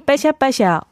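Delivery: cracking, catching on phlegm. Real, not acted. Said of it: "가래가 꺾여가지고".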